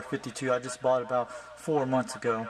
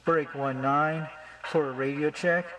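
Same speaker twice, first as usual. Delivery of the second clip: slow, drawn-out trucker radio call; slower than usual. Shown as a demonstration. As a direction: call it out over the CB. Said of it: "Use the channel nineteen".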